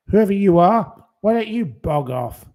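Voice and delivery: real anger at a troll; angry shout. Real, not acted. Telling a commenter to leave.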